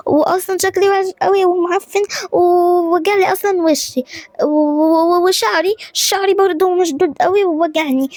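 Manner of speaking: high, upset complaint; distressed whining. Acted. Daughter fretting to mother about her face and hair, distressed whining.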